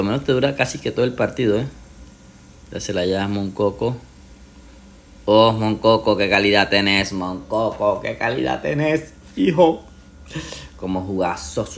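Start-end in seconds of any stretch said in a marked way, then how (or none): 5.3-9.8 excited praise. Real, not acted. Praising player loudly.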